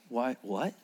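low, very soft question; hushed puzzlement. Acted. Disciples puzzled by the order to call him, hushed. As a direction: ask it low and small, rising at the end.

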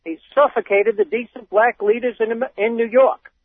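put-on reading a quote in a light Boston accent; hint of a wicked Boston accent. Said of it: "break out my wicked Boston accent".

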